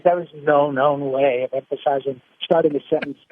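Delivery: a hint of the Brain, grand and grumbling; pompous know-it-all refusing the note; lightly voiced Brain rebuking Pinky. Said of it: "And then the Brain says".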